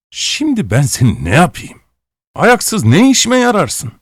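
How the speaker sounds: a master thinking aloud in disgust; grumbling aloud. A narrator's reading. Master complaining about useless apprentice, loud exasperated grumble. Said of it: "yüksek sesle kendi kendine söylendi".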